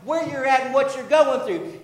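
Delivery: steady, insistent preacher's cadence; emphatic preaching. Real, not acted. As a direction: proclaim God's words to the congregation. Preaching God's words emphatically.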